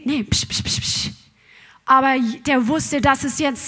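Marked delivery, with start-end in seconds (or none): 0.0-1.2 softer, whispered shushing; hushing whisper. Retold or imitated. The crowd shushes the blind beggar in a whisper. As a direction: hiss the crowd quiet.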